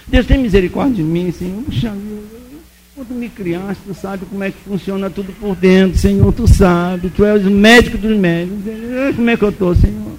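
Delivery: mock pleading prayer; acted tearful plea. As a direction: beg God as if near tears. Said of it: "Aí comecei a chorar". (súplica chorosa encenada)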